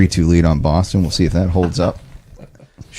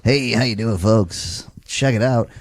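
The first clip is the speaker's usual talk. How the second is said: announcer voice; 4 semitones higher than usual. Acted. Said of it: "Doing my Jeff announcer voice right now".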